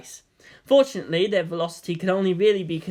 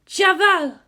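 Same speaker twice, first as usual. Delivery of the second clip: high, loud, awed cry of home; breathed; 12 semitones higher, 6 dB louder than usual. A narrator's reading. Guide sees her home valley and cries out in awe. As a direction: greet your homeland in awe. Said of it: "Hasya breathed".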